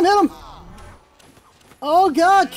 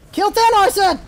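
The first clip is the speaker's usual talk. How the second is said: higher, exasperated order; insistent command; 5 semitones higher than usual. Real, not acted. Gamer repeating an ignored order, insistent command. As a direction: insist on being obeyed.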